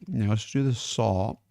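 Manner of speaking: chewing while talking; mouth full. Real, not acted. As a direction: talk through a mouthful. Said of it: "Sorry, I'm chewing".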